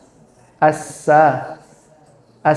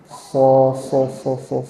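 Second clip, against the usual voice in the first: goose-like so; 3 semitones lower, 5 dB quieter, much slower than usual. Shown as a demonstration. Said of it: "mirip seperti suara angsa".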